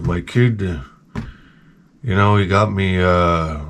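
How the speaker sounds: put-on low, quiet, defeated old man; old coworker impression. Old maintenance man describing his Christmas gifts, resigned low impression. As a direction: mumble it low like a beaten-down old worker. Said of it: "he used to talk like this".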